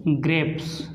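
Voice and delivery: ग्रेप्स said low and soft with a clear final s; ग्रेप्स pronounced as "greps", ending in s; modelled pronunciation. Shown as a demonstration. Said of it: "इसलिए आप इसको पढ़ेंगे".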